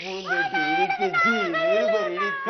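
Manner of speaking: very high put-on voice, slow; comic figure wailing about the pot; squeaky comic voice. Squeaky voice in skit.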